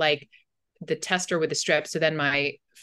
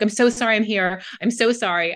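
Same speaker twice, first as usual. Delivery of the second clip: re-enacted over-apology, a touch louder; lightly acted pleading apology; apologizing; 3 semitones higher, 4 dB louder than usual. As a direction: imitate an insistent, apologetic patient. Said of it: "I was even apologizing to him".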